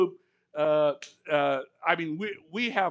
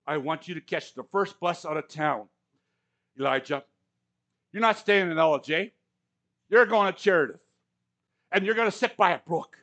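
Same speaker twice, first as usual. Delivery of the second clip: voice of God; 4 dB louder than usual. Acted. God voiced giving Elijah orders.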